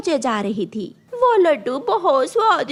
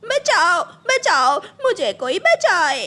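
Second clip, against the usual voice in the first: desperate cry for help; 4 semitones higher, slower than usual. Acted. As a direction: keep calling out in fear, then plead. Burning crow still calling for help. (डर के मारे पुकारना)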